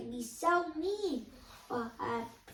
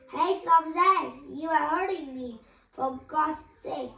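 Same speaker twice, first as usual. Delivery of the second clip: indignant protest; 3 semitones higher, 7 dB louder than usual. A narrator's reading. Jack pushing back the hitting girl, loud protest. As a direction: stop the blows, loud and cross.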